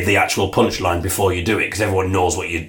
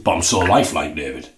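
Ray's voice; 3 semitones lower than usual. Acted. Ray protests he is real.

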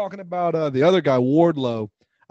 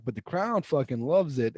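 calm, slow retelling, pitched lower; Conan; 4 semitones lower, 4 dB quieter than usual. Retold or imitated. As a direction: imitate someone unbothered, easing the pitch down. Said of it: "Conan, it real calmly says".

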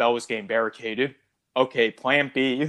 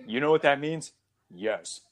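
acted spaceman; 6 semitones higher than usual. Acting the movie spaceman.

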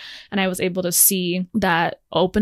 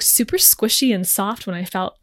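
ordinary talk, nothing marked

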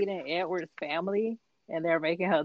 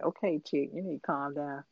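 mock calm-down; 3 semitones lower, 9 dB quieter than usual. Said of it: "And I'm like".

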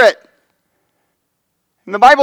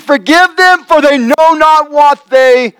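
mild cry out; 4 semitones higher than usual. Retold or imitated. Preacher voicing Jesus crying out from the cross, slow raised plea. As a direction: lift the plea up slowly as if crying it. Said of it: "he cries out and he says".

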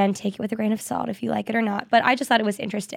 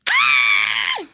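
high-pitched scream of joy; excited scream; 4 dB louder than usual. Real, not acted. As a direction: shriek at huge news. Thirty million downloads news.

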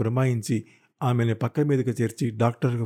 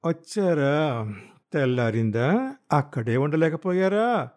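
sarcastic taunt; 3 semitones higher, slower than usual. Acted. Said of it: "రణరంగానికి సిద్ధమై ఉంది".

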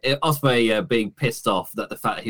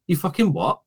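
mock outrage; 7 semitones higher than usual. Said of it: "and then Ospreay just like".

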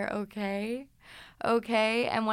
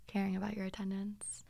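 confessing quietly; 10 dB quieter than usual. Retold or imitated. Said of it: "She's like".

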